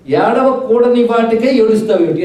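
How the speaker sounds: slow, mildly emphatic challenge; forceful question. Retold or imitated. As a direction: put the question firmly, drawn out. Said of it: "question అంత గట్టిగా వేశాడు". (కాస్త గట్టిగా, నెమ్మదిగా నిలదీసే ప్రశ్న)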